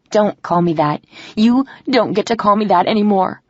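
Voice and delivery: sharp, rising anger; angry. Acted. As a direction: shut the nickname down hard. Rejecting his pet name angrily.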